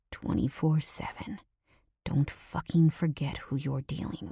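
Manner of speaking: hushed warning from a dangerous man; menacing whisper. Acted. Nico asserts control, threatening.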